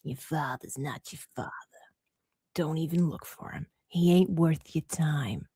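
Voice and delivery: low, whispery Caribbean medium impression; hushed mimicking of a dismissive psychic; Madame Cleo. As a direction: murmur it low, offhand and uncaring. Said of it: "the Caribbean medium".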